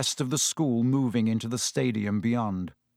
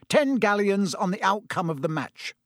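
hearty; 7 semitones higher than usual. A narrator's reading. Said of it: "said Percy heartily".

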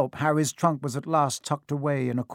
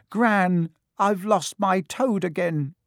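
put-on lost-toad boy; 5 semitones higher, 3 dB louder, slower than usual. A narrator's reading. Boy losing his toad.

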